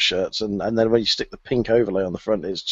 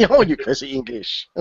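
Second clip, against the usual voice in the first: mock French accent; 3 semitones higher than usual. Joking as a caricature Frenchman.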